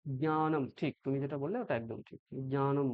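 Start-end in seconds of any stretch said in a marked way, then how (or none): 0.1-0.6 জ্ঞানম with a nasal touch after the first consonant; careful first syllable in জ্ঞানম; Sanskrit pronunciation. Shown as a demonstration. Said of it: "বলবে". 2.5-2.9 জ্ঞানম with a light nasal ny; Sanskrit pronunciation. Shown as a demonstration. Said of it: "বলবে".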